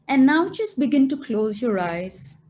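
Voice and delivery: slow meditation voice with long pauses; guided meditation. Acted. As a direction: guide them gently into stillness, phrase by phrase.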